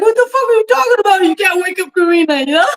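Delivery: frantic, high, rushed panicked screaming. Recounting her then-husband's reply on the phone, retelling a panicked scream.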